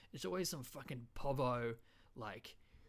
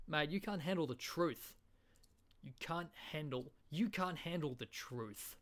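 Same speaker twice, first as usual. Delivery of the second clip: matey, emphatic Aussie version; Australian accent; 3 semitones higher than usual. Acted. Aussie telling a mate off, emphatic Australian accent. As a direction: turn the film outburst broad Australian. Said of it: "in an Australian accent".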